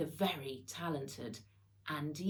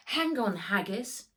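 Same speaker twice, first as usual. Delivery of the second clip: higher, louder call over the wind; shout; 4 semitones higher, 4 dB louder than usual. Acted. Max warns Haggis on the snowboard, shouting. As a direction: yell it to the dog mid-ride. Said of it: "shouted Max".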